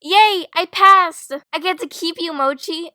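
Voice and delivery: high, gleeful cheer, softening at the end; excited delight. Acted. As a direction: celebrate passing, then coo to the pet. Student learns she passed.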